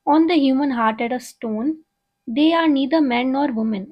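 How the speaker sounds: slow, measured poetry reading; poem recital. Acted. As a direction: read each line out slowly like a recital. Reads poem aloud slowly. (धीमी, नपी-तुली कविता पाठ)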